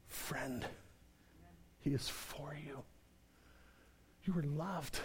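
hushed pastoral tenderness; tender hush. Acted. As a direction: lean in and reassure them gently.

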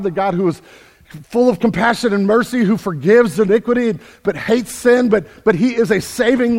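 loud, high, driving sermon voice; full-force preaching. Acted. Pastor warning his church about idols, preaching at full force. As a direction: preach it hard to the whole room.

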